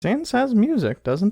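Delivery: voice cracking. Asking whether the game character has music: voice cracking. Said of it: "I say as my voice cracks".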